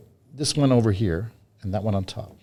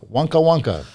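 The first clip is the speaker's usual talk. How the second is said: playful magic chant, higher; kids party magician; 6 semitones higher, 4 dB louder than usual. Acted. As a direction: chant nonsense words for children. Magician adds silly magic words.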